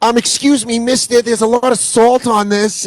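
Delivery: very high-pitched put-on New York kid voice. Retelling meeting a kid in New York: imitating a New York Jewish kid. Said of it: "that's when you see that in New York".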